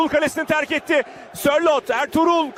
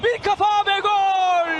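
goal call; 4 semitones higher than usual. Real, not acted.

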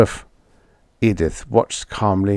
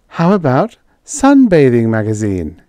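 higher, louder, perky suggestion; 4 semitones higher, 6 dB louder than usual. A narrator's reading. Edith proposing a sponsor to Roy, suggesting it brightly. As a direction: float the idea with lifted pitch. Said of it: "she suggested".

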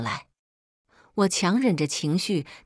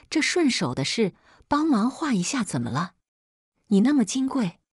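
higher, scolding hard with hands on hips; loud scolding; 5 semitones higher than usual. A narrator's reading. Mother-in-law scolds the makeup artist, loud scolding. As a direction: bark it like an indignant mother-in-law. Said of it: "大声呵斥道".

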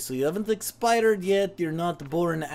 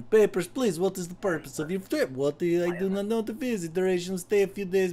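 mock Eastern European accent. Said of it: "going in and out of the accent".

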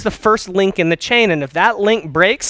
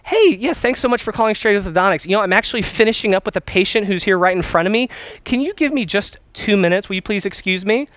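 higher, quick and friendly phone voice; bright friendly; 3 semitones higher than usual. Shown as a demonstration. Receptionist puts a caller on pause, friendly and upbeat. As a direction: sound busy but glad they called. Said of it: "If you tell someone when they call".

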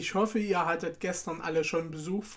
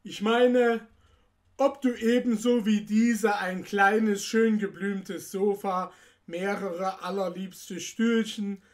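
put-on measured read-aloud storytelling for children; story narration; 2 semitones higher than usual. A narrator's reading. The speaker reads Nussknacker und Mausekönig to children, story narration. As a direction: narrate an old Christmas tale to listeners. Continues reading the tale.

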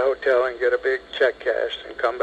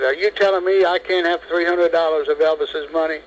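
voice getting louder; 5 semitones higher than usual. Retold or imitated. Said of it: "now his voice is getting louder".

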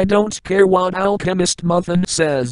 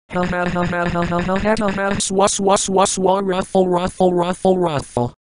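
mocking laugh. Mocking laughter after insult.

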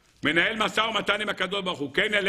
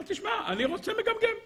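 mock God voice; 13 semitones higher, 5 dB quieter than usual. God voiced mockingly in sermon.

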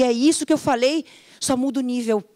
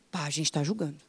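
much softer, lower self-correcting mutter; caught-out aside; 8 semitones lower, 10 dB quieter, faster than usual. Retold or imitated. Coach catching herself judging, dropped soft and low. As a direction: drop the voice and catch yourself.

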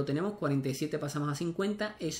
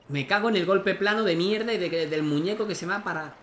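frustrated cursing; 4 semitones higher, 5 dB louder than usual. Real, not acted. Cursing a bad shot in game.

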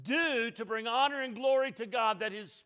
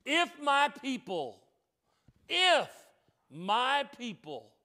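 slow, measured, emphatic litany; preaching. Acted. Preacher warning the church that hard times come, emphatic preaching. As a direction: drive each phrase home like a preacher. Preaches a building list from scripture.

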